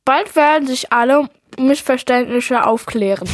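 reading with a full mouth; muffled through a mouthful of cookie. Real, not acted. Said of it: "so undeutlich sprichst mit vollem Mund".

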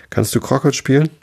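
high-pitched royal question, little extra volume; half-hearted queenly shriek; mild mock yell. A narrator's reading. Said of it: "schrie die Königin".

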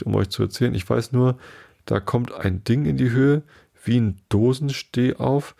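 a lightly voiced shaken lizard; squeaky little voice. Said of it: "kleine, schwache, quiekende Stimme".

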